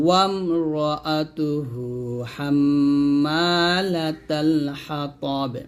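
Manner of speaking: very slow, long hummed m and held vowels; Quran recitation. Shown as a demonstration. Teacher models stopping on the word, slow recitation. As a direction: stretch the verse, bounce the final b.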